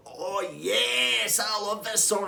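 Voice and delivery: high, loud party whoop; excited shout. Retold or imitated. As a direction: yell it over the blaring music.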